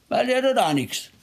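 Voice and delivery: high, mocking complaint; grumbling at God. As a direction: play the sulking believer griping about God. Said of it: "auf Gott zu schimpfen".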